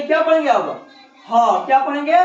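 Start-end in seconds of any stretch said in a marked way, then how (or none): 1.3-1.7 H read as "ह", not "aitch"; teacher's phonics "ह", lower and falling; letter sound for H. Shown as a demonstration. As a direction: say "ह" as one open "haw" syllable, falling. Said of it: "एच, इसको एच नहीं".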